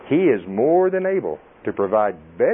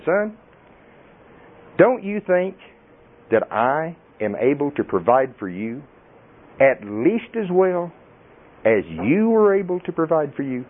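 stern rebuke, raised pitch, deliberate pauses; God; 3 semitones higher, slower than usual. Acted. A father correcting his doubting son, strong and reproving. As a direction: upbraid a son with slow, weighted phrases. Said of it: "I heard him in that tone of voice".

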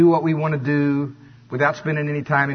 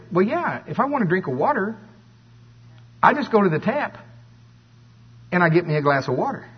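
obvious answer; 6 semitones higher than usual. Acted. Acts out his answer to God.

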